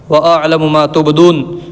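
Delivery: slow, drawn-out chanted Arabic verse; Quran recitation. Acted. Teacher reciting God's words to students, slow chanted recitation. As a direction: recite it unhurried, like tilawat.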